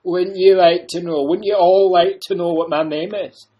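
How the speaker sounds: loud laughing mock-mystery; the Doctor laughing off his name; teasing laugh. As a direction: tease them with a laugh. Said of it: "what's your second name".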